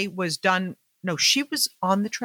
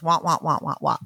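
mock cartoon-adult wah wah, dropping lower; muffled wah-wah talk; 4 semitones lower than usual. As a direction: imitate a voice heard as meaningless wah wah. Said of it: "So all I heard was".

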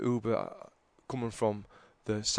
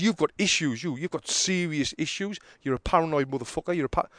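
raised-pitch insulting rant; retold anger; 5 semitones higher than usual. Passenger telling the driver he has issues, angry. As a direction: have a go at him, pitched up. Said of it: "I'm getting angry".

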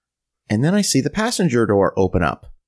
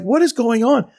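higher-pitched baffled question; bewildered disbelief; 10 semitones higher than usual. Retold or imitated. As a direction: replay the confusion, pitched up. His bewilderment, retold.

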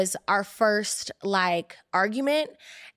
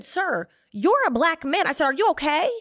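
higher, pointed disbelief; retold confrontation, pitched up; checking him; 5 semitones higher than usual. Woman retelling how she checked her boyfriend, indignant challenge. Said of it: "I checked him".

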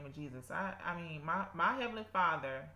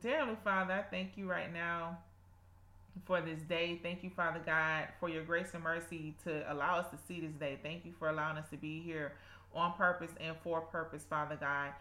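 earnest spoken prayer. Acted. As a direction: pray aloud with devotion. Leads a prayer.

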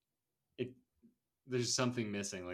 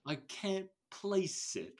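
slow, higher odd voice; Pug impression; 6 semitones higher, 7 dB louder, slower than usual. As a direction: talk like you're half asleep. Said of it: "talks like this".

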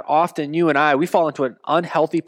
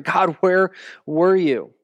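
pleading question; 2 semitones higher, slower than usual. Retold or imitated. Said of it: "we're wondering".

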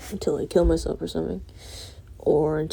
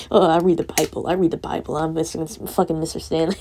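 mocking a Christian; 5 dB louder than usual.

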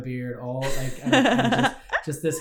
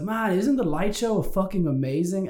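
put-on drunk; 5 semitones higher, slower than usual. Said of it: "I was so drunk".

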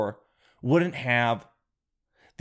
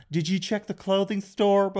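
put-on Southern accent; 5 semitones higher than usual. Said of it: "Amazon was like".

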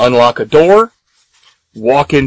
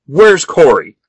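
mild mock yell, pitched up; retold scream; 4 semitones higher, 5 dB louder than usual. Kat demanding Corey from Clay, retold scream. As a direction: demand it louder, half-screaming in imitation. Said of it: "Kat just keeps screaming at him".

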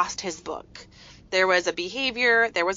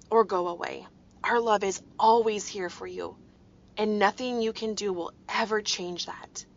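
tender reassurance. Retold or imitated. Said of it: "And I said".

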